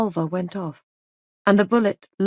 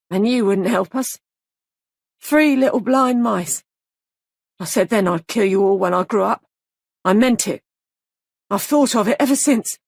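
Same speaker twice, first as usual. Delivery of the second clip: put-on lightly childish voice, swelling louder; a hint of an eerie child, growing louder as he goes; a grown man slipping into a child's voice; 2 semitones higher, 4 dB louder than usual. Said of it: "was becoming a child's voice".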